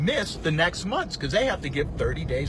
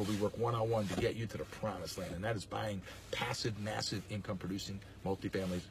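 winded, trailing off softer; out of breath; 7 semitones lower, 13 dB quieter than usual. Real, not acted. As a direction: talk while short of breath. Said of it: "I'm out of breath".

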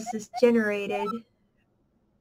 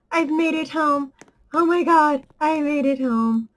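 relieved; 3 semitones higher, 6 dB louder than usual. Real, not acted. Made it home in game.

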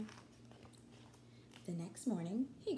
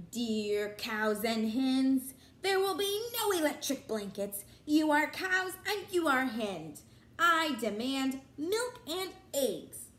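furious; 2 semitones higher, 5 dB louder, slower than usual. Acted. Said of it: "Farmer Brown was furious".

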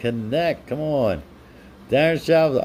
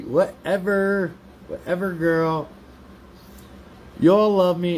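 put-on Valley girl voice; 5 semitones higher than usual. Streamer brushes off a chatter in mock Valley girl voice. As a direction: dismiss them like a Valley girl, stretched out. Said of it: "sounds like a Valley girl".

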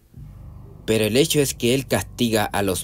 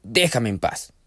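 raised, irritated voice; annoyed retort; 4 semitones higher, 3 dB louder than usual. Acted. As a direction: push him away, fed up. Tired Steve snaps at entity.

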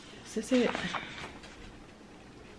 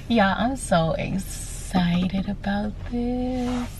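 content; much slower than usual. Real, not acted. Savoring new car.

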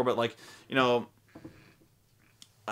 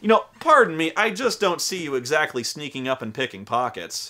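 mock-polite wizard; 2 semitones higher, 4 dB louder than usual. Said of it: "the wizard goes".

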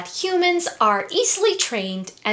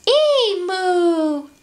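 put-on high, drawn-out baby animal call; announcing platypus; 9 semitones higher, 4 dB louder than usual. A narrator's reading. Newborn platypus to the farm animals, high announcement. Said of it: "announced the platypus".

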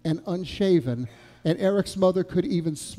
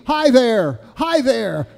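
loud, higher-pitched excited call; retold scream; 6 semitones higher, 6 dB louder, slower than usual. One-year-old hailing a stranger across the diner, mock scream. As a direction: call it out like a squealing toddler. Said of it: "he was screaming".

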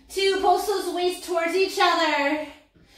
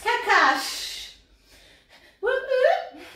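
silly sound effects; 8 semitones higher, much slower than usual. Shown as a demonstration. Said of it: "great time for sound effects".

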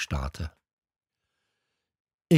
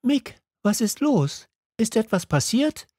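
much higher, worried calling voice; alarmed call; 12 semitones higher than usual. A narrator's reading. Mother calling to her son, alarmed. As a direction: cry out in sudden worry. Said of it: "rief Mama mir zu".

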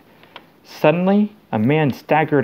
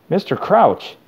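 higher-pitched, mildly insistent call; mildly raised call; 6 semitones higher than usual. A narrator's reading. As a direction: call out to get his attention. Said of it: "Harry said loudly".

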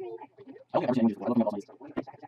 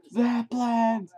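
goofy war cry; 6 semitones higher, much slower than usual. Pretend. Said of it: "Eric, you gotta shut up".

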